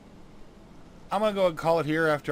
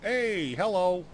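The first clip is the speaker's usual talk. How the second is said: chirpy fairy. Acted. Fairy sniffs out the halfling.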